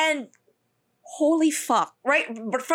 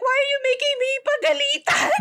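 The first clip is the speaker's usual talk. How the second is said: crying whine; 13 semitones higher, faster than usual. Retold or imitated. So I start crying.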